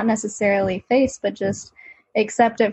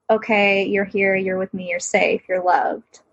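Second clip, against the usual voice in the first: reassuring self-talk. Shown as a demonstration. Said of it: "present self saying".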